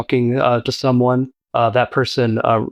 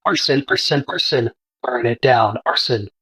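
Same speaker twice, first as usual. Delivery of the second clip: raven voice. Acted. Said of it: "the raven on your shoulder goes".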